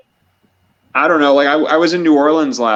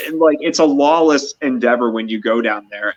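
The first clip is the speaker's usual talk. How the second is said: normal talking voice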